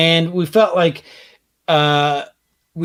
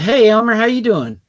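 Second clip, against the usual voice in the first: cheery greeting; 4 semitones higher, 5 dB louder than usual. Retold or imitated.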